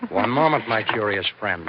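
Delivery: loud, menacing stop; villain cornering a spy, loud and threatening. Acted. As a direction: catch him in the dark and hold him.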